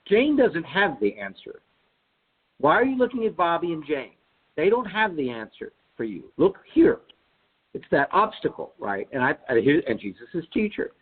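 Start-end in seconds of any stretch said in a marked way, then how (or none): 0.1-7.0 chirpy schoolteacher reclaiming attention; elementary teacher's voice. Retold or imitated. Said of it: "I can hear my teacher's voice".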